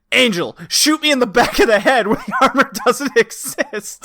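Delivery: urgent acted order. Acting out the character's frantic order.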